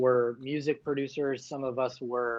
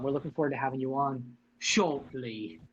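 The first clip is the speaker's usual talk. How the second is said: a lightly put-on British accent, polite host welcome; welcoming a guest on in a bad British accent. Host welcoming Erica in a mock British accent. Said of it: "and my bad accent".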